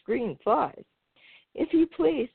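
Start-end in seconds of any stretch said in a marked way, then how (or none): 1.5-2.3 high, polite little mouse asking a favour; small mouse politely begging old frog. A narrator's reading. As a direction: ask sweetly and politely, a bit higher. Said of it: "very politely".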